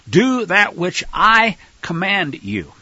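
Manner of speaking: slow, deliberate order; motherly command. Acted. Mother instructing her son Yaakov, slow command. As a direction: lay down the command word by word.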